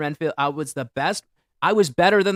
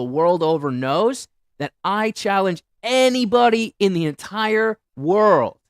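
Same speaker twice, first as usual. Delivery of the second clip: ranting boast; 4 dB louder than usual. Real, not acted. Boasting rant, voice rising.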